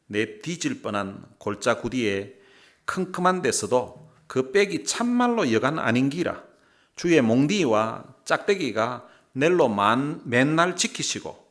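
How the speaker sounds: loud, punchy Gyeongsang dialect reading. Shown as a demonstration. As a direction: belt out scripture in Gyeongsang dialect. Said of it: "경상도 버전을 한번 읽어드리겠습니다". (힘주어 크게 경상도 사투리로 읽기)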